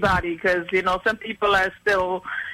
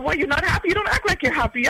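teller voice; 7 semitones higher, faster than usual. Retold or imitated. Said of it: "He said".

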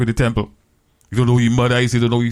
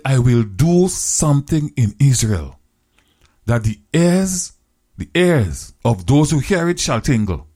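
slow, weighty divine pronouncement; slow, grave proclamation from God; solemn voice of God; 2 semitones higher, slower than usual. Acted. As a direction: stretch it out like a prophecy. God's voice in sermon story.

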